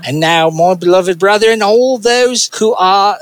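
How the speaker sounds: effortful stab at Aussie; attempted Australian accent. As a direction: read scripture in a put-on Australian accent. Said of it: "in an Australian accent".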